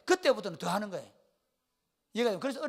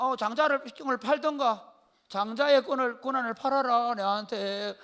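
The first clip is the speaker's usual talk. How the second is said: acted sly bargainer; 3 semitones higher, 4 dB louder than usual. Acts Jacob bargaining for birthright.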